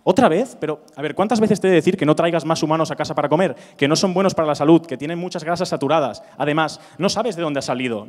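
mock exasperated scolding, loud outburst easing off; arguing wife. Cannibal's wife scolding her husband for bringing humans home, mock quarrel. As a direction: act a fed-up wife laying into her husband. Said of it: "empezar a discutir con su mujer, en plan".

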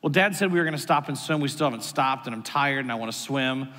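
low, sulky retold complaint; frustrated child. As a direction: imitate a tired kid grumbling to Mom. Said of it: "You sound like you're frustrated".

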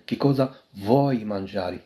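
very slow, syllable by syllable; slow model phrase. Shown as a demonstration. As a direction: draw each word out for learners. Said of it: "Mangiare تاكل".

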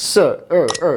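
"স" as a brief suh, "অ" as uh; correct short vowel. Shown as a demonstration. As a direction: keep "স" and "অ" short and central. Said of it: "হবে কি".

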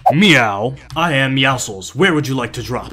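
low, measured robot greeting; put-on bot. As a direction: announce yourself like a game bot. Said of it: "Why you sound like that?".

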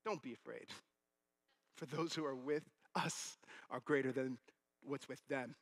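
steady the frightened servant gently; calm reassurance. Acted. Prophet to his scared servant, calm and reassuring.

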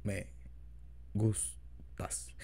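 stiff robotic lover. Shown as a demonstration. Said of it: "Bien robótico".

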